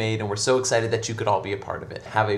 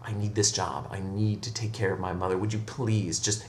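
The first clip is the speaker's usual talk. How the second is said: lower-pitched earnest plea; very serious; 3 semitones lower, 5 dB quieter than usual. Acted. Hunchback begging the priest for the job, very serious. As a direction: drop the voice and plead gravely. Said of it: "looks at him very seriously".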